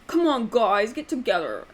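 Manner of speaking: lightly voiced all-brawn, no-brain guy; mock a badly narrated male character; a hint of goofy, childish dude; silly dubbed voiceover. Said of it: "a really silly, dubbed kind of voiceover".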